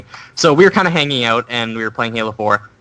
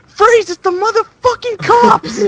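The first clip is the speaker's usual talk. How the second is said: high, drawn-out pretend cop yell; hammed-up raid shout, much higher; mock police shout; 4 dB louder, slower than usual. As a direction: burst in yelling like a kid playing cops. Boy bursts in pretending police.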